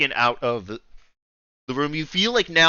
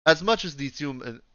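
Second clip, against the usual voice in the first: attempted Russian-accented speech; lightly put-on Russian accent; 4 semitones higher than usual. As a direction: try a hint of Russian. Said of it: "I'm trying to do Russian".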